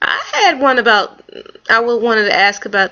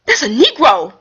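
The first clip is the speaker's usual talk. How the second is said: can't believe your eyes; rising amazement, a laugh in it; excited disbelief; 8 semitones higher than usual. Retold or imitated. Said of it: "I said".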